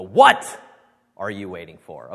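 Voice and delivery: WHAT hit hard and loud; emphasis on what, rest falls away; stress on WHAT. Shown as a demonstration. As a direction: lean on the word what, then let it drop. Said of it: "depending on where you put the emphasis".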